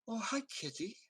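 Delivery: cooing hello to a cat; sweet high greeting. Acted. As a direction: greet the kitty like a child would.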